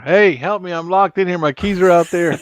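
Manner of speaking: a hint of panic, hammed up; mock trapped plea. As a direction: play someone stuck inside calling out. Acting out being locked in car.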